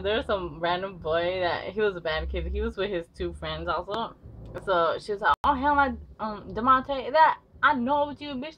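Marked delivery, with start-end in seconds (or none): 5.4-8.6 high mock furious snap; hammed-up tough girl calling him out; angry accusation. Girl accusing Demonte, high mock angry voice.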